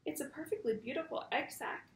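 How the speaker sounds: whispered thought. A narrator's reading. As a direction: whisper it like a secret worry. Reads story aloud to class.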